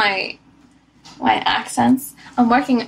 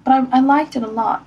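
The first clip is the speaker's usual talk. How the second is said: mock English lady Rebecca, lightly voiced; English accent as Rebecca; 2 semitones higher than usual. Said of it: "the English lady?".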